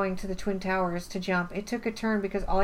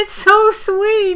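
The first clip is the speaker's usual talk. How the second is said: laughing; 13 semitones higher, 11 dB louder, much slower than usual. Real, not acted. Gushing over a sweet movie moment.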